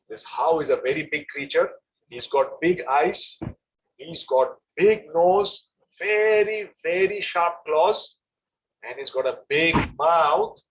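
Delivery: slow, drawn-out spooky storytelling; mother describing a scary monster. Acted. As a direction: draw out each scary feature to frighten him.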